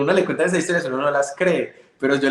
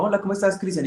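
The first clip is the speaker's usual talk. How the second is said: intercom caller; 6 semitones higher than usual. Retold or imitated. Voices visitor on the intercom.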